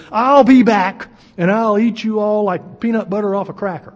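loud, hammed-up taunt on I'll be back; mock villain threat. Sennacherib taunting Jerusalem as he leaves, hammed-up threat. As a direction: ham up a gloating enemy king. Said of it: "That wasn't exactly what he said".

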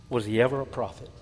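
softly repeating "ever" with a falling end. Shown as a demonstration. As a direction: drop it to a hushed repeat. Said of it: "repeated softer".

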